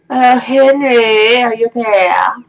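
high, drawn-out playful call to the fort; hammed-up falsetto hail toward Henry; high mock call. Player hailing the fort in a high silly voice.

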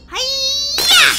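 high, loud attack cry; karate yell. Acted. Molly breaking glass to free baby, attack yell. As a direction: yell it as you strike.

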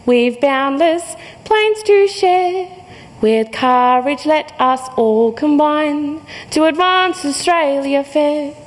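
slow, solemn anthem lines; anthem recitation. Pretend. Quoting the national anthem.

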